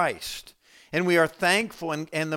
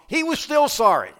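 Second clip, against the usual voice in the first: He was still sorry with still hit high and loud; stress on still; 10 semitones higher, 6 dB louder than usual. Real, not acted. Preacher driving home that Judas is still sorry, stressing still. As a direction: lean hard on still.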